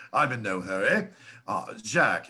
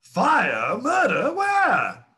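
startled questions; 9 semitones higher, 5 dB louder, much slower than usual. Acted. Alarmed father answers.

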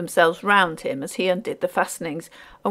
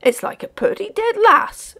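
high-pitched, louder working man's voice; rustic porter; 14 semitones higher, 5 dB louder than usual. A narrator's reading. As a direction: marvel at it in rustic speech. Porter remarks on the figure.

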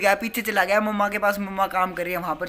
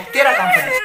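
very high, louder plea; high pleading; 7 dB louder than usual. Real, not acted. Brother promising Prateek his task first, squealing high plea. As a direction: squeal it out, begging.

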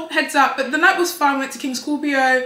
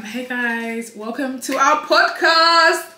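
podcast host voice; much slower than usual. Pretend. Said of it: "I joke".

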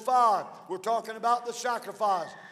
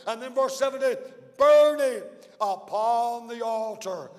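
louder, driving preacher's cadence; preaching; 3 dB louder than usual. Acted. Pastor drives the sacrifice verses home, fervent preaching. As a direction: hammer each verse home like a revival preacher. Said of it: "Right now, I'm gonna preach".

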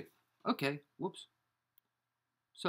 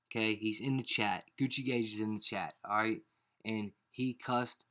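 usual speaking voice

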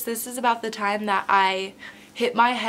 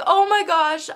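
high, loud mock wail; exclaimed in imitated distress; retold crying panic; 9 semitones higher, 5 dB louder than usual. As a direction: act out a tearful outburst, pitched way up. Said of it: "I'm crying".

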